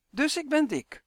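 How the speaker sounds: high, dismayed moan; groaning.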